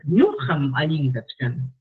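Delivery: slow, assured statement; certain, assured. Shown as a demonstration. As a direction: say it with certainty, unhurried. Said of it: "le das certeza".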